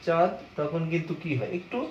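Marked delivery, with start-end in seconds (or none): 0.1-0.3 চাঁদ with the "a" through the nose; lightly nasalise the vowel of চাঁদ; "chãd", a nasal চাঁদ. Shown as a demonstration. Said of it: "একটু নাসিক উচ্চারণ করি".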